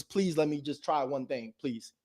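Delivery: soft, slow pleading; a hushed, slow plea for a chance; begging. Pretend. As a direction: beg meekly, slowly and softly.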